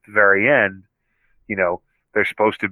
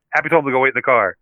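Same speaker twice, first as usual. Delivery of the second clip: quick deflection; 4 semitones higher, faster than usual. Retold or imitated. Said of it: "Stark's response".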